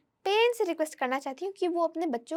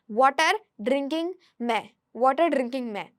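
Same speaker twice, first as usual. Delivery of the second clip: put-on slow, careful little-kid English, word by word; child's broken English; 3 semitones lower, much slower than usual. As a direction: sound out the jumbled words slowly like a small child. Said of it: "तो मैं ऐसे बोलती".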